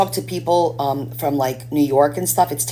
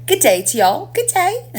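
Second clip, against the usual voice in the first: hammed-up British greeting, higher and rising; mock British accent; 4 dB louder than usual. Mocking a British guy met in the elevator, hammed-up British accent. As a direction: camp up a British accent on good day. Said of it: "He was British".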